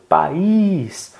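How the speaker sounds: mild pretend call, long Í in "País"; calling across street. Shown as a demonstration. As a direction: hold the Í as if calling over the road. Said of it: "gritando a palavra pro outro lado". (chamando de longe, com Í esticado)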